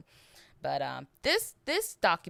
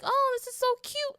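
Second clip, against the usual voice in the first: high, much louder cooing over kittens; imitating a cruel man's fake sweetness; mock cooing killer; 4 dB louder than usual. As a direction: coo like a creepy man fussing over kittens. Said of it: "he was like".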